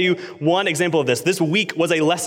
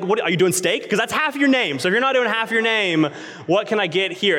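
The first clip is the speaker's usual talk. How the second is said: exasperated challenge; 6 semitones higher than usual. Retold or imitated. Retold sarcastic challenge to cashier.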